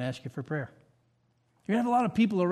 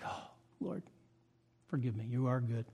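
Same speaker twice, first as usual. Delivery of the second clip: hushed prayer; 5 semitones lower, 8 dB quieter than usual. Retold or imitated. Remorseful prayer after conviction.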